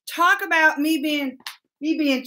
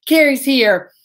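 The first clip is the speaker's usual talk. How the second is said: whisper; 4 dB louder than usual. Real, not acted. Greeting a viewer in a whisper.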